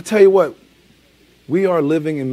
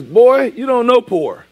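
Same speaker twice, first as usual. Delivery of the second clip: a light, louder Fred Sanford; Fred Sanford impression; 6 semitones higher, 6 dB louder, slower than usual. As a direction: bark it like Fred Sanford scolding his son. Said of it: "he says".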